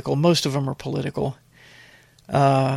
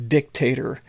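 "dictator" with the weight on DIC; stress on the first syllable. Shown as a demonstration. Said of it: "with emphasis on the first syllable".

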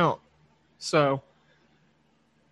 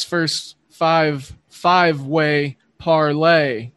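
slow; 3 semitones lower, much slower than usual. Shown as a demonstration. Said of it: "Say that five times fast".

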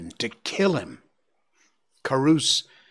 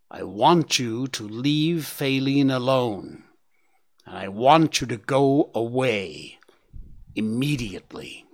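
suppressed anger. Acted. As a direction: keep the fury under the lid. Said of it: "in a voice that distorted by the anger he was suppressing".

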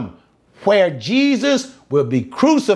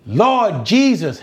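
slow, mildly raised preacher's call; crying louder; 2 semitones higher than usual. Acted. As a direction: draw out the plea to Jesus. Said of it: "they cried even the louder".

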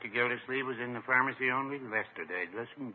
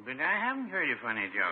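laughing. Pretend.

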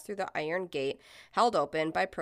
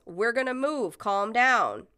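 mild, higher-pitched yell; 4 semitones higher, 4 dB louder, slower than usual. Retold or imitated. Protester to armed homeowner, yelling mildly. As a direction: call out to calm someone. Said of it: "Someone yells".

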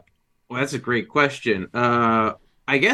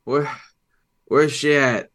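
anxious father; 5 semitones higher, 4 dB louder than usual. Acted. Player character alarmed.

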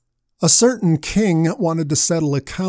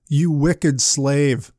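stern rebuke; much slower than usual. Acted. King rebukes unforgiving servant.

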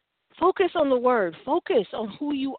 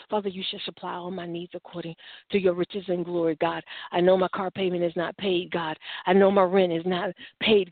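lower-pitched, steady prayer of faith; praying the word; 5 semitones lower than usual. Acted. Believer standing on God's promises in prayer, praying the word. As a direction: recite promises firmly in a low register. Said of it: "that's praying the word of God".

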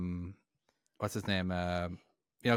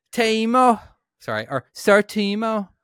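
high, drawn-out put-on Dublin; Dublin accent; 4 semitones higher, 3 dB louder than usual. Host finishing the supporter list, showy Dublin accent. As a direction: proclaim the names in an exaggerated Dublin accent. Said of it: "let's try a Dublin accent".

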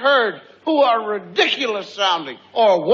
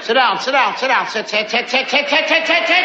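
auctioneer. Retold or imitated. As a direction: rattle off commands like an auctioneer. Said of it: "Sound like a tobacco auctioneer".

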